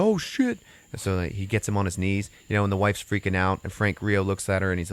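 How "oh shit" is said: high-pitched startled yelp; mock panic. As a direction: imitate someone woken by an intruder. Couple startled awake by intruder.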